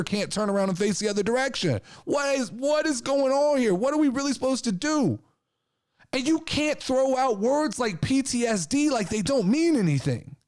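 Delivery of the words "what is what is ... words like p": exasperated outburst. Real, not acted. Exasperated rant.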